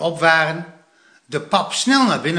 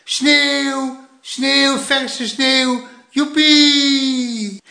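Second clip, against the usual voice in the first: high, joyful shouting; very loud cheering; 10 semitones higher, 5 dB louder, much slower than usual. A narrator's reading. Plop just outside in the fresh snow, very loud cheering. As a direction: whoop it out, stretching the last word. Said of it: "riep Plop heel hard".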